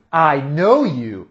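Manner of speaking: slow, deliberate I know you. Shown as a demonstration. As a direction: spell it out slowly.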